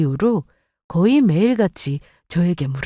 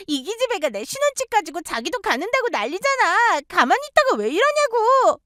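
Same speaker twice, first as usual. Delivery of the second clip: higher, complaining to mom; whiny angry sister; 12 semitones higher than usual. Acted. Daughter complaining to mother about her sister, whiny. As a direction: tattle on her sister indignantly.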